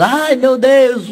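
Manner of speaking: slow, high cries of labor pain; the woman in labor cries out, drawn out; hammed-up birthing yell; mock screaming.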